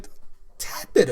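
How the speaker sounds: voice cracking. Real, not acted. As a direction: voice breaking on the words. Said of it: "my voice cracked there".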